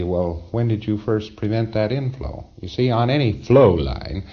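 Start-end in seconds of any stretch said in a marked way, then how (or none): 0.0-2.5 lightly voiced auditor asking when it first began; right question, plain ask. Shown as a demonstration. Lecturer demos the correct auditor question, lightly voiced. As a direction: asks when he first prevented that inflow, evenly. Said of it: "it'd be".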